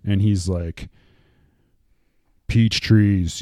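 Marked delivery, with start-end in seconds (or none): 2.5-3.4 Batman voice. Retold or imitated. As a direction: growl it like Batman. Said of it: "he's got this voice like".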